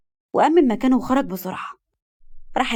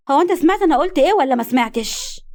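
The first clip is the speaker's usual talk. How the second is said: raised, louder angry demand; 5 semitones higher, 4 dB louder than usual. Acted. Sultan snapping at his mother, loud and angry. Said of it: "ظهر الغضب على وشه سلطان".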